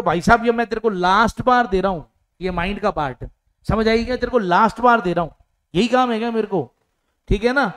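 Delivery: fast, mildly annoyed telling-off; mock scolding. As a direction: scold the borrower lightly, hammed-up. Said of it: "अब आप उसको लड़ रहे हो". (हल्की नकली डांट)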